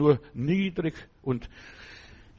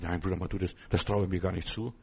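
timid refusal; 6 semitones lower, 5 dB quieter than usual. Retold or imitated. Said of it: "Du sagst".

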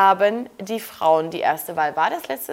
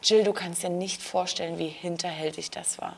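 mocking cast member; 6 semitones lower, 9 dB quieter than usual. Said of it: "weshalb vorher gesagt wurde".

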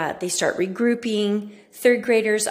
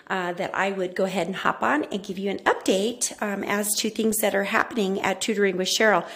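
echoey room. Real, not acted. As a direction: echo of a bare empty office. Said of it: "If I sound a little echoey".

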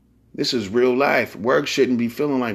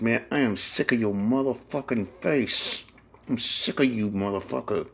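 softer, muttered contempt; muttered grudge; 6 dB quieter than usual. Retold or imitated. Coworker muttering about a colleague, much softer. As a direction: mutter it under your breath.

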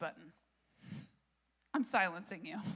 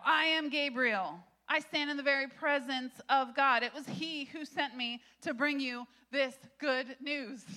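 booming angel Gabriel; 4 semitones higher, 5 dB louder than usual. Acted. Pastor voices angel Gabriel.

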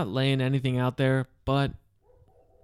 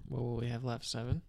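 soft unvoiced whisper; 11 dB quieter than usual. Real, not acted. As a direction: whisper the question. Whispered question.

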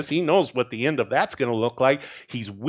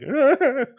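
sudden high acted laugh; high mock laugh reaction; 10 semitones higher, 4 dB louder than usual. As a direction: burst out in a higher-pitched laugh. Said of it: "I'll be like".

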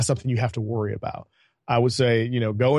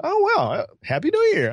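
higher, startled and caught off guard; surprised. Retold or imitated. Client surprised by his friendly greeting, answers startled and higher. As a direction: act thrown by the friendly pat, then answer. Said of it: "And he's like".

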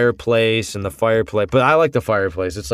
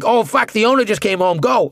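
panicked high voice; 11 semitones higher than usual. Retold or imitated. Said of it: "then I'll be talking like".

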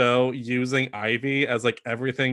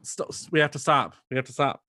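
mock panic; 2 semitones higher than usual. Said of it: "remember just being like".

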